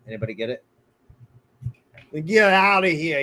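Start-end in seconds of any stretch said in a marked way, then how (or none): 2.2-3.2 Christopher Walken. Retold or imitated. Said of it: "in the Christopher Walken voice".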